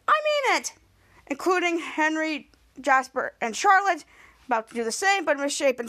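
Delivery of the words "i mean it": mock stern. Teacher insisting.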